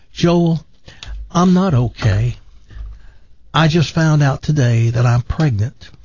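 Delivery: lightly voiced TV preacher retelling a tearful encounter; gentle sermon-story lilt, barely shifted from own voice; Joel Osteen impression. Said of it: "he always tells the story like the person knows who he is".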